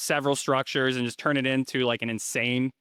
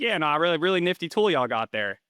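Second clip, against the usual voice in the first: mock Southern banker; 4 semitones higher than usual. Local banker in Kentucky praising the tool, in a light Southern accent. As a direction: play the small-town Southern banker with a light Southern lilt. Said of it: "a Southern accent here".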